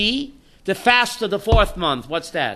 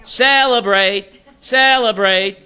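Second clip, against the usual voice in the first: slow repeat; 3 dB louder, slower than usual. Shown as a demonstration. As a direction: Celebrate said slow and drawn out, twice. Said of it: "Tisha B'Av will be a day of celebration".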